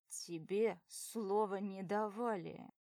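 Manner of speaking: slow, cold rebuke; curt. Acted. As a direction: cut her off coldly. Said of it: "обрывает Андрей".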